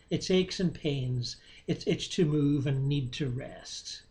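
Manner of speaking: unhurried meditation guidance with long pauses; guided meditation. Real, not acted. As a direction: guide listeners gently, leaving space between phrases.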